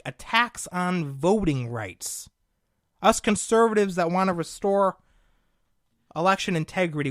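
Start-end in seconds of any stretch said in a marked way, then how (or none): 0.0-2.3 slow, sarcastic repeat of Attacks on voting rights; mocking their phrasing. Shown as a demonstration. Host ridiculing the statement's wording, slow sarcastic repeat. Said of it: "see, this is the way they speak".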